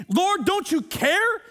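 loud, high and slow, exasperated; overwhelmed complaint. Retold or imitated. A busy believer complaining to Jesus, exasperated. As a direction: plead like you're at the end of your rope. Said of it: "come to prayer ... in a place that's unhealthy".

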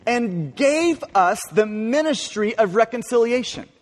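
"gave" is leaned on and held, the rest read evenly; stress on gave. Shown as a demonstration. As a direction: put the weight of the whole verse on "gave". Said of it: "I want you to, to hear this emphasis".

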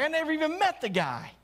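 high, hasty brush-off, pretending not to know him; mock panicked denial; flustered denial. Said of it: "It's like".

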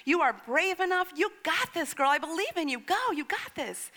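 mother's pep talk, building and lifting in pitch; re-enacted rallying words of belief; retold encouragement. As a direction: cheer a nervous child on. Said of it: "I began speaking life over her".

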